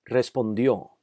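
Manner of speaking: Respondió with final "dió" stressed; stress on accented syllable. Shown as a demonstration. Teacher showing words with tilde, Respondió stressed on "dió". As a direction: lean on the last syllable of Respondió. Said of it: "sílaba que necesita ser enfatizada".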